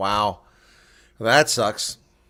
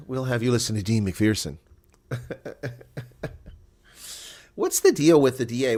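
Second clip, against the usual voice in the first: ordinary delivery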